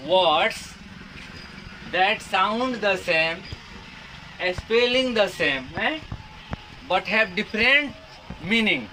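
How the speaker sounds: reads the definition word by word, very slowly; slow dictation. Acted. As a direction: dictate it slowly so students can write. (धीरे-धीरे बोलकर लिखवाना)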